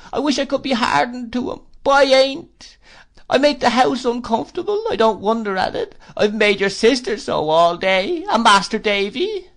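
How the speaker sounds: high, loud plaintive widow's whine; Missus Gummidge. Acted. Mrs Gummidge pities herself at dinner, high whine. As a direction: whimper it like a self-pitying old widow.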